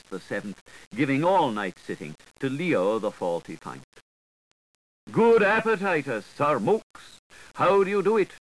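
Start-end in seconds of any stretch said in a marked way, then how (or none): 5.1-8.3 high, loud, chirpy little voice; cheeping Gripes. A narrator's reading. The Gripes greeting the Mookse, high and cheeping. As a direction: cheep it up high like a small creature. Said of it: "cheeped the gripes".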